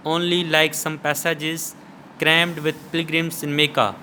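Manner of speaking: slow, measured verse recitation; poem reading. Shown as a demonstration. Teacher reading the poem aloud to students, slow and deliberate. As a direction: read the poem slowly, pausing between phrases. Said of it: "poem पढ़ के बता रहा हूँ".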